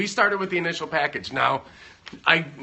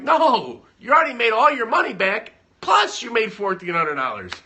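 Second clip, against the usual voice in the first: high, loud insistence easing back toward normal; retold husband insisting she did well; emphatic reassurance; 8 semitones higher, 6 dB louder than usual. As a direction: talk her out of the tears. Reassuring crying wife in story.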